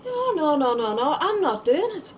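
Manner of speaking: high, loud string of refusals; agitated, insistent protest; emphatic refusal. Acted. Monologue opens with flat refusal.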